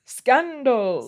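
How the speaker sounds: a hint of a British accent on Scandal!, high; halfhearted British exclamation; bad British accent. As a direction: attempt a posh British Scandal! and miss. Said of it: "I can't do a British accent".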